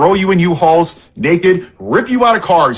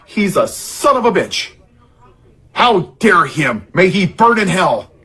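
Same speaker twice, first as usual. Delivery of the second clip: mock outrage; slower than usual. Mocking outraged patriot.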